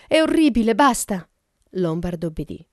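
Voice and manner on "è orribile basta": high, loud plea to stop; shrieked protest, much higher and louder; horrified cry. A narrator's reading. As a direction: cry out in distress. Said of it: "Vera gridò".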